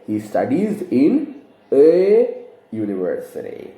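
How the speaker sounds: slow, deliberate "a" before "university"; stress on a. Shown as a demonstration. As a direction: lean on the article "a". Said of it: "So we have to say".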